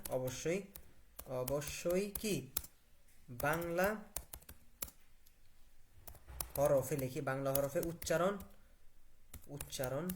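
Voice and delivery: halting, word by word with long gaps; slow dictation. Shown as a demonstration. Teacher dictating a prompt into the app, slow word by word. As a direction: dictate each word separately, waiting in between. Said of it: "ওকে, আমি কি বললাম?".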